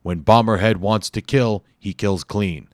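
loud raspy New York tough guy; Bomberhead's raspy New York voice. Acted. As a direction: rasp it out with a New York accent. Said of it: "he said in a raspy voice".

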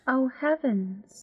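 sarcastic. Acted. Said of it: "was that sarcasm?".

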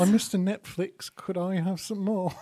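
meek British orphan asking; Oliver-style British accent. Acted. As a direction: plead politely in mock British. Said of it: "Oliver Netflix".

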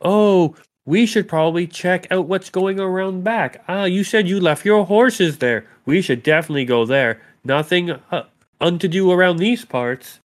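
high, put-on innocent chatter; feigned casual suggestion. Sori steers the party around back, high put-on voice. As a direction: pitch it high, as if improvising an excuse. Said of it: "So she's like".

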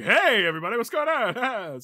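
mock barging in. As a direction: burst in with an overeager hello. Imagines barging into conversation.

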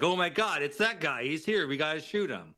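lightly hammed-up alarm; mock alarm. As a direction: act out mobsters suddenly spotting their target. Voicing panicked mobsters in retelling.

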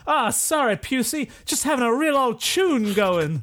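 high, breezy musician character; Elton. Acted. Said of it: "And Elton says".

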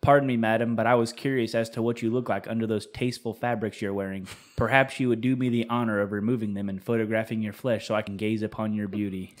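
low, measured, courtly reading; mock-elegant. Man reading an elegant nudes request to the ladies, mock-elegant. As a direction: read it as a formal, elegant request. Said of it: "the most elegant way to ask for nudes".

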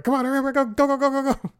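yelling at the cat from the bike; frantic urging yell. Retold or imitated. Urging pet while stuck on bike.

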